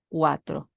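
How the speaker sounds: "cuatro" cae de golpe; tono cuatro. Shown as a demonstration. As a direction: deja caer "cuatro" fuerte. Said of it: "el cuatro que cae fuerte". (cuarto tono descendente)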